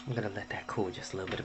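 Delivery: ordinary delivery, nothing marked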